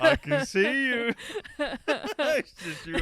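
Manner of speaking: high, drawn-out Cockney imitation through laughter; hammed-up Cockney, slow and high; mock Cockney accent. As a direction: put on a silly Cockney villain. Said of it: "In his Cockney accent".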